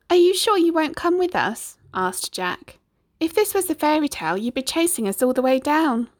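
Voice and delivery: put-on high, teasing boy; young Jack. A narrator's reading. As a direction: coax the giant playfully. Jack voiced.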